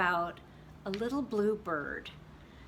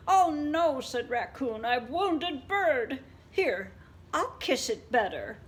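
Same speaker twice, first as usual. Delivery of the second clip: worried raccoon; 6 semitones higher, 5 dB louder than usual. Acted.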